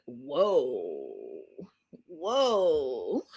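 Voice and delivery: lightly whiny, drawn-out mock wail; Gino. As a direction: imitate a whiner, stretching each word. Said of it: "it becomes all whiny".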